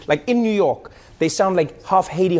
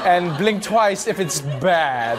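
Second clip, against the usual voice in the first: conspiratorial joke; much slower than usual. Pretend. Joking to Egyptian fan.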